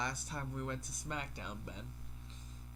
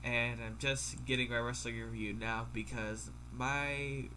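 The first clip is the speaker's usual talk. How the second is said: talking through a stuffy nose; congested, blocked-nose voice. Real, not acted. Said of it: "My nose is stuffy".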